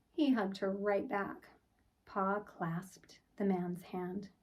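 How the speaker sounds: put-on gentle read-aloud for children; storybook narration. A narrator's reading. Teacher reading a picture book to the class, storybook voice. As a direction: tell it like bedtime story time.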